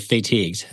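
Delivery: "fatigued" said as fay-TEEGD; borrowed pronunciation. Retold or imitated. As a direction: echo "fatigued" with a long "fay" first syllable. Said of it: "never heard it pronounced that way".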